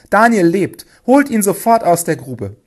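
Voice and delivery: high, loud, joyful cry; relieved shout. A narrator's reading. King ordering Daniel pulled out, relieved shout. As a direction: burst out with relief and command. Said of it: "rief der König erleichtert".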